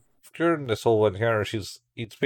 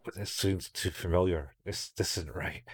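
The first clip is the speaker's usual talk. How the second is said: much softer, lower, shaken murmur; whisper-close dread as it dawns; panicky muttering; 3 semitones lower, 9 dB quieter than usual. Retold or imitated. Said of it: "has some weird panic anxiety attack type thing going".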